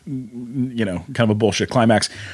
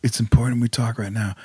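ex-husband quote; 4 semitones lower than usual. Retold or imitated. Ex-husband voiced in retold scene.

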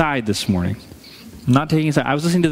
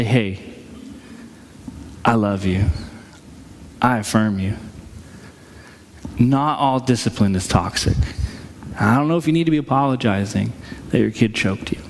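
gentle grandparent; 5 semitones lower than usual. Retold or imitated. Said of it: "grandparents lovingly try to step in".

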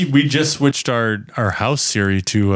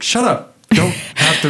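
mock annoyed retort; 5 semitones higher than usual. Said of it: "we're like".

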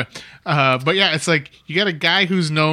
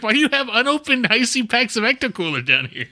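incredulous quote; 9 semitones higher than usual. Retold or imitated. Mock-quoting an incredulous character.

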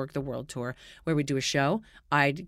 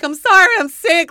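loud apology; 11 semitones higher, 14 dB louder than usual. Retold or imitated. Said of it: "I'm like".

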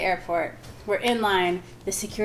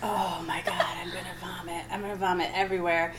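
nauseous whisper; 6 dB quieter than usual. Retold or imitated.

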